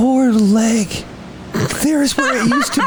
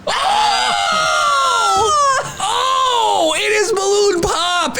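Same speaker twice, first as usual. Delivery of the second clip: excited shouting; 10 semitones higher, slower than usual. Real, not acted. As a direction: yell it in disbelief. Wheel lands on balloon pop.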